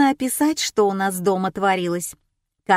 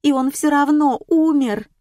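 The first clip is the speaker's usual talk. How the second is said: higher, louder panicked cry; 7 semitones higher, 5 dB louder than usual. A narrator's reading. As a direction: blurt it out in panic. Panicked woman cries out.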